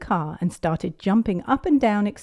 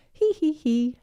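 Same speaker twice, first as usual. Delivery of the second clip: giggling; 10 semitones higher than usual. A narrator's reading. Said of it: "Everyone laughed".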